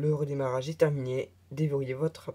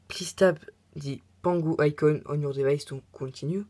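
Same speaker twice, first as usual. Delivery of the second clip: English read in a French accent; bad English accent. Real, not acted. French tutorial host reading an English on-screen prompt, poor English accent. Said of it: "Avec mon accent anglais".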